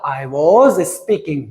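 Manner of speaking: I was speaking, stretched out word by word; slow model sentence; slow teaching model. Shown as a demonstration. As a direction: spell the sentence out slowly for the class. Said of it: "मैं बोल रहा था".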